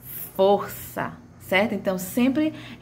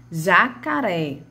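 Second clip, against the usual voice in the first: "Jacaré" put back together slowly; syllable by syllable; slower than usual. Shown as a demonstration. Teacher recapping the three syllables, slow and measured. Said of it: "elas são formadas por sílabas".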